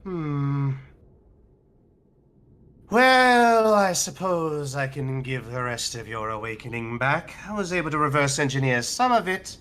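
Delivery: a hint of a stern captor; lightly voiced stern giant. Giant warns then relents.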